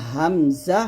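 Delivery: slow "হামজা" from the start of the throat; normal, unpressed. Shown as a demonstration. Teacher recapping for students, slow unpressed "হামজা". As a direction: draw out "হামজা" without pressure. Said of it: "গলার শুরু থেকে উচ্চারণ করব নর্মালভাবে".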